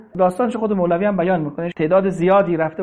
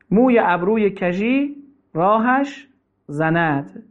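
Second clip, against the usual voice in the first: slow, measured verse recital; poem recital; slower than usual. Acted. Preacher reciting Rumi's couplets to listeners, measured recital. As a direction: let each line of the couplet land.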